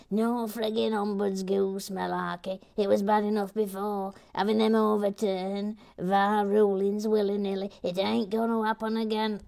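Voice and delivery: Gary Blair, firm objection. Retold or imitated. Host voicing objection to the ombudsgoose, firm mock rant. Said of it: "he's quite firm on that".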